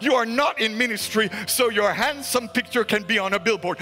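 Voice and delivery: driving, insistent sermon delivery; forceful preaching. Real, not acted. Preacher charging fellow ministers to please the Lord, forceful preaching. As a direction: preach it in emphatic, rhythmic phrases.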